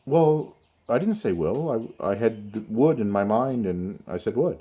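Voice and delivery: imitating a mildly defensive student; semi-argumentative student. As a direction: push back a little, as a student correcting the teacher. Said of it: "in an argumentative, uh, not argumentative, but, uh, semi-argumentative manner".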